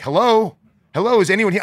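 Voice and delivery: mock call down an empty hall, high and loud. Guest calls out in hotel hallway for chip's owner, high loud call. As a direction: retell calling for the chip's owner.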